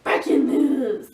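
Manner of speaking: slow newscaster opener, copying; news anchor voice. Shown as a demonstration. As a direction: announce it like the evening news. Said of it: "how do people say breaking news".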